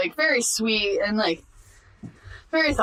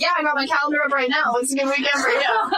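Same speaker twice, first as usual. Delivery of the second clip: mock eager yes; 4 semitones higher than usual. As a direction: fake excitement, rushing to agree. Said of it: "I'm like".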